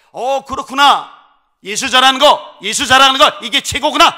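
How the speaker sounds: the family realizing what matters most, exclaiming; joyful realization. Acted. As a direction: exclaim it like a sudden discovery.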